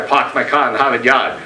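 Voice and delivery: middle-class Boston accent, "parked" with a broad ah and "Harvard" as Hahvad; ordinary Boston accent, r's dropped but parked kept broad; lightly done middle-class Boston accent. Shown as a demonstration. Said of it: "Middle-class".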